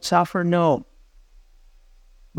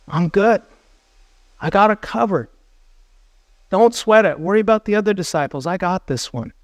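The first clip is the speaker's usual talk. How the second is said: higher, breezy overconfidence; cocky self-assurance; 3 semitones higher than usual. Acted. Disciple boasting to Jesus that he needs no help, cocky. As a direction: brush it off as if it's all handled.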